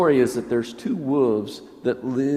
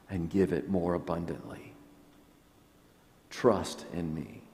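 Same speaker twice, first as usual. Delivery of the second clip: softer, gentle words of comfort; tender reassurance; 3 semitones lower, 4 dB quieter than usual. Retold or imitated. Preacher voicing Jesus comforting the fearful, soft and tender. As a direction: speak them like a hand held out.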